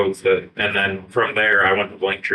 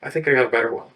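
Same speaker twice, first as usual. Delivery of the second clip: imitating partner; 6 semitones higher than usual. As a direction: lightly mimic the partner's new idea. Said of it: "you're gonna be like".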